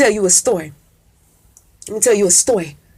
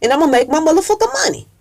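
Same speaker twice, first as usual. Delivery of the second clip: excited boast; 4 semitones higher, faster than usual. Retold or imitated. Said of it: "He said".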